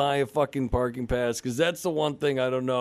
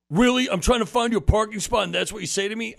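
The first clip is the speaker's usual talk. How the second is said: louder, higher indignant cop; a raised, offended retort; irritated cop; 4 semitones higher, 5 dB louder than usual. Retold or imitated. Imitating the cop taking offence at his complaint, louder and higher. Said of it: "And he's like".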